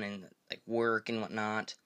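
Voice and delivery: talking with food in mouth; mouth full. Real, not acted. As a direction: speak around a mouthful. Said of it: "Sorry, I had something in my mouth".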